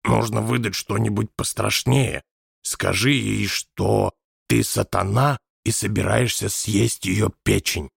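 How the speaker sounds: amused, conspiratorial suggestion; hiding a smile. A narrator's reading. Scene: Nelson to Wallace, suppressed amusement. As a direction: hold back a grin. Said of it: "пряча улыбку".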